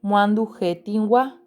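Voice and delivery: despacio, palabra por palabra, como dictando; léelas despacio para los chicos; lectura lenta. Shown as a demonstration. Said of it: "Vamos a leer las palabras". (lectura pausada de maestra)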